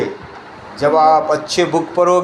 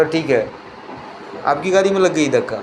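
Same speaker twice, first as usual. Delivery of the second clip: a hint of unruffled calm; calm reply; 4 dB quieter than usual. Ratan Tata calmly answers the angry car owner, mildly soothing. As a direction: answer gently, in no hurry. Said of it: "ये आराम से बोला।".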